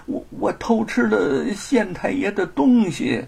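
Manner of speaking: slow, stammering, halting admission; hesitant confession. Acted. Thief hesitantly confessing to the crowd, slow stammer. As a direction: force the words out with shame. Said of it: "犹犹豫豫地".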